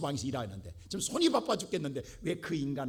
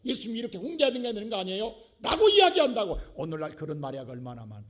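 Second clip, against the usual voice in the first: normal talking voice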